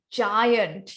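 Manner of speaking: "giant" stretched out long; elongated word. Shown as a demonstration. Trainer showing how to feel a word, "giant" elongated. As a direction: draw out "giant" so it sounds big. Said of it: "You can elongate the word".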